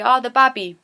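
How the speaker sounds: lightly played Geordie friend asking after the baby; Geordie chat. Shown as a demonstration. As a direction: Geordie woman greeting a friend with her baby. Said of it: "we'd say".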